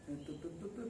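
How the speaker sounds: soft, level droning to to to; flat monotone. Shown as a demonstration. Teacher imitating text without exclamation marks, soft flat drone. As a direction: drone every syllable the same, no tune. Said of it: "to, plano, como un cantante".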